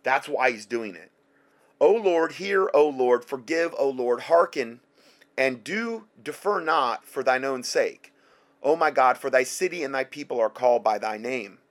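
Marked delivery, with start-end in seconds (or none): 1.8-11.6 loud, earnest recital of an ancient prayer; fervent scripture reading. Acted. Preacher reading Daniel's plea to his class, fervent. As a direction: pray the verse out with fervour.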